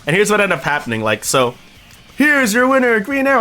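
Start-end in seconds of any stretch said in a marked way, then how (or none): 2.2-3.4 higher-pitched ring announcer call. Retold or imitated. Streamer retells the match result, as a ring announcer. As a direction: announce the winner to the arena.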